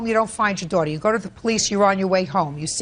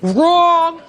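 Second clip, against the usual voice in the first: loud, sharp "Wrong!"; shouted verdict; 11 semitones higher, 9 dB louder than usual. Real, not acted. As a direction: shout it like a final ruling. Judge rejects his position.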